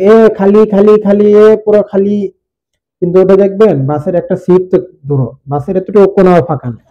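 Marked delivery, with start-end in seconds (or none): 0.0-2.3 loud hawking bus conductor; bus conductor calling out. Retold or imitated. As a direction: call out for passengers like a conductor. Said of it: "contractor ঠিকই রাখবে". (বাস কন্ডাক্টরের হাঁকডাক)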